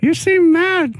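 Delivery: very high sing-song puppet; cheerful kid puppet voice. Pretend. Puppet dialogue.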